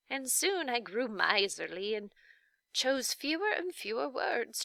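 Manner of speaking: lightly voiced grandmotherly witch; Faintly Macabre, kindly witch. The witch tells her story.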